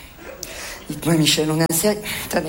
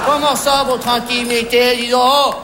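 indignant; 3 semitones lower than usual. Acted. Indignant retort to Michel's excuse.

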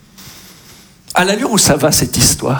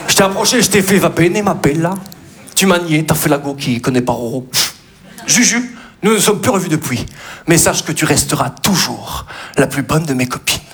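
comic love poem recited; mock poem recital; faster than usual. Comic recites a silly love poem to Juju.

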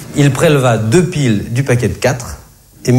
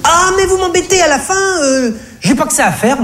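high, squeaky exasperated cashier voice; yelping annoyed cashier. Acted. Comedian playing the irked cashier, high yelping voice. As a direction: yelp it out with an irritated sigh, way up high. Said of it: "mentit-elle effrontément".

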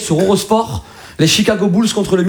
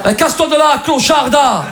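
higher-pitched, indignant Marseille insult; mock angry dismissal; 7 semitones higher than usual. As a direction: send them packing in mock outrage. Acted rejection by Marseille flirt.

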